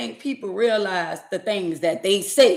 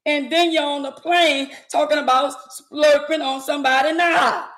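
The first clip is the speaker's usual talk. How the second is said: outraged shout; 3 semitones higher than usual. Real, not acted.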